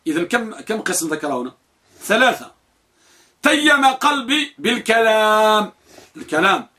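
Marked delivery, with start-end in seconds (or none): 3.4-5.7 بالكلام said bil-kalam, stressed a after the k; slow raised recitation of بالكلام, stressing the a after the k; kalam with fatha. Shown as a demonstration. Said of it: "بفتح الكاف".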